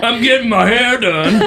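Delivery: high laughing mock girly voice; imitating a woman. Host mocking how women text, high laughing girly voice. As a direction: giggle it in a high girly put-on. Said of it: "women are always like".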